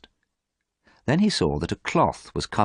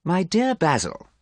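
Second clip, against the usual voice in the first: higher, slow bored drawl; 12 semitones higher, slower than usual. Acted. Dorian brushes off his worried friend, bored. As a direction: sound utterly uninterested. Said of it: "Dorian sounded very bored".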